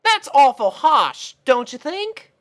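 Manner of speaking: high, slow southern filly; lightly voiced country filly. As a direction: gently reprove your friend. Apple Bloom character voice.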